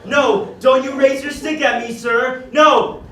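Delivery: a hammed-up cry of protest; mock alarmed. Servant begging the Frenchman not to strike, mock alarmed. Servant being beaten by foreigner.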